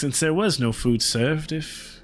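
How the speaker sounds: polite, nervous goblin begging for food; hobgoblin voice. Acted.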